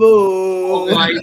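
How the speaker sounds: name flung up high; excited greeting. Real, not acted. Former teammate greeting an old friend, high and excited.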